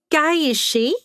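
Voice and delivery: put-on high-pitched, curious old lady; perking up. A narrator's reading. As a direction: pipe up with sudden interest. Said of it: "Helen perked up".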